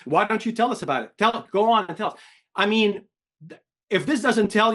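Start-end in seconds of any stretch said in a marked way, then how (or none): 0.0-2.2 mock angry boss, pitched up; imitating the CEO demanding answers; hint of an annoyed boss; retold boss. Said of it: "It's like".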